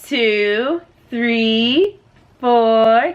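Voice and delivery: slow counting with long gaps; slow, deliberate toddler-style count. Retold or imitated. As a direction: count out each number, drawn out. Showing how toddler counts aloud.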